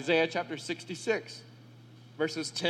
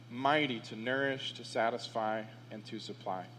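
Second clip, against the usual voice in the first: much lower and softer, fading to near silence on "supply"; soft refrain; 8 semitones lower, 6 dB quieter than usual. Shown as a demonstration. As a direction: let the refrain sink to a hush. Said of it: "refrain repeated softly".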